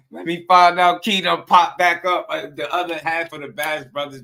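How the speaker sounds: high, loud hype; excited hype. Real, not acted. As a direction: get hyped about the co-main. Hyping the fighter's return.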